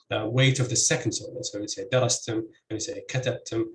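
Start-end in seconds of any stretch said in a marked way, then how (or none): 1.9-3.6 DArastim and KAtabtim, first syllables stressed. Shown as a demonstration. Lecturer comparing syllable weight, darastim and katabtim stressed first. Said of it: "both have stress on the first".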